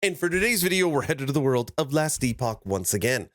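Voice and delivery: stuffy nose from a head cold; blocked nose, talk through the cold; nasal voice from a cold. Real, not acted. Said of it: "as you can hear from my nasally voice".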